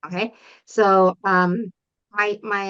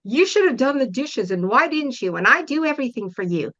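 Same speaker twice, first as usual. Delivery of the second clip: mildly heated, reproachful nagging; understated angry mom over the dishes; mock angry scolding; 3 semitones higher than usual. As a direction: play the fed-up mom blaming the kid. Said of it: "getting mad and saying".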